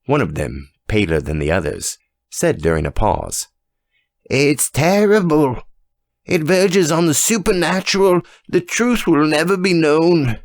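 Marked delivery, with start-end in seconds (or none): 4.2-10.4 high, hushed voice of a frightened lady; frightened pale woman. Acted. Pale woman to the judge, fearful and high. Woman speaks in fear during pause.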